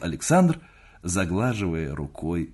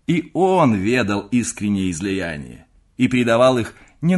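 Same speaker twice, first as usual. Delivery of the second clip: put-on teasing young nephew; 3 semitones higher, 5 dB louder than usual. Nephew teases uncle with letter.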